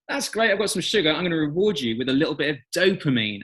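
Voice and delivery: bright-eyed brain talking, starting high; lightly voiced brain. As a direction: play a pleased brain handing out a reward. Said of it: "our brain goes".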